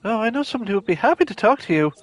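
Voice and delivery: laid-back surfer dude. Acted. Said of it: "I'm just gonna give him the surfer dude voice".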